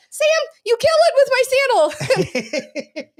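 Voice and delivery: very high, slow, laughing friend impression; Skylar voice. Cohost asked for it, doing Skylar's voice for the show. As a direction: stretch it out high and whiny like Skylar. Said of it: "do it, your Skylar voice".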